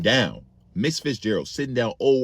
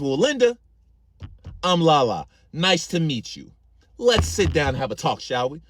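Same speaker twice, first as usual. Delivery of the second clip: mock-polite proper; 2 semitones higher than usual. Auntie faking politeness.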